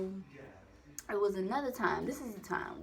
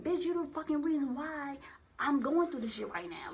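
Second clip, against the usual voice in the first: high-pitched indignant comeback; indignant retort; 6 semitones higher, 4 dB louder than usual. Retold or imitated. Retorting to the manager who blamed her, high indignant voice.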